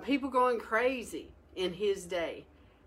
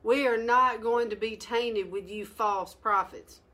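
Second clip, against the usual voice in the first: mild preaching quote; 3 semitones higher, 3 dB louder than usual. Retold or imitated. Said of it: "Nehemiah says".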